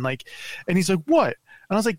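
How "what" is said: mocking the driver. Rude driver's reply, voiced high.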